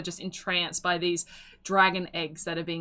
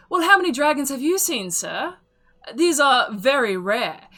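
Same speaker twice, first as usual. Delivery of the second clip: higher, louder sales pitch; persuasive auctioneer; 3 semitones higher, 4 dB louder than usual. Acted. Auctioneer to the heckling sir, persuasively selling. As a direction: win the doubters over.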